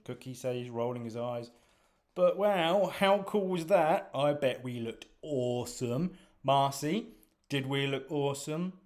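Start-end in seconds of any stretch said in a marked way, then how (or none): 2.1-8.8 high, loud and slowed with glee; a hammed-up thrilled squaddie; excited boast. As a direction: gush about how cool it looked. Cookie excited after the fight.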